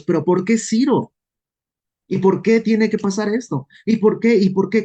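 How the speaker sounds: rising, insistent why, why; mock-whine the repeated why; complaining believer. Preacher mimics believers pestering God about Cyrus, whiny and insistent.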